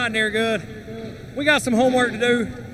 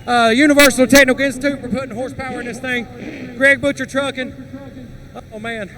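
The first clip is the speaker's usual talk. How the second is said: panting between words after the race; winded, gasping for air; out of breath; 3 dB louder than usual. Real, not acted. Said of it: "So I gotta catch my breath".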